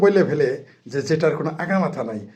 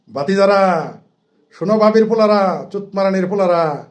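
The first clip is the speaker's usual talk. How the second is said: louder and higher, jeering at his nephews; raised mocking call to the other side; taunting call-out; 4 semitones higher, 4 dB louder than usual. Real, not acted. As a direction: call them out with a raised, scornful voice. Taunting opponents directly, calling out.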